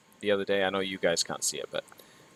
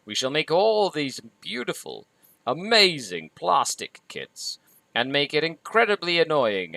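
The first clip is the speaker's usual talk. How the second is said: high, grand, mock-regal proclamation; pompous company voice; 6 semitones higher than usual. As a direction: lord it over the hobbyists. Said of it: "And Games Workshop is like".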